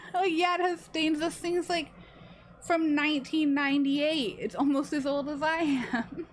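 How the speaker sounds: defensive. Retold or imitated. Defending her stained sweatshirt.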